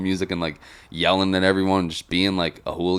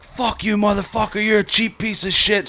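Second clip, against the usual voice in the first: high-pitched angry woman imitation; mock berating; 12 semitones higher than usual. Rowdy bar regular berating the bartender, mock tirade. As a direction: imitate her berating him in a strained high voice. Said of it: "berating this guy".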